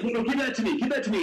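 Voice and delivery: high-pitched grabby pleading; imitating a bickering drinker; mock squabbling. Acts out fight over drink.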